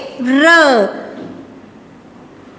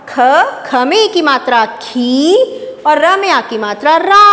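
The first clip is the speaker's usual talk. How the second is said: sounding out words. Shown as a demonstration. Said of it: "अब इसको पढ़ के देखते हैं".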